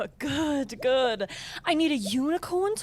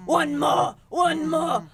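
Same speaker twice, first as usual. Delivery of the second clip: mock shout; 5 dB louder, slower than usual. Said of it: "saying really weird stuff like".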